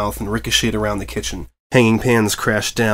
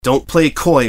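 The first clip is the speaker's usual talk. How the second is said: louder, sharp snap; snapping; 3 semitones higher, 4 dB louder, slower than usual. Acted. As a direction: snap at the rabbit. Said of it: "Presspass snapped".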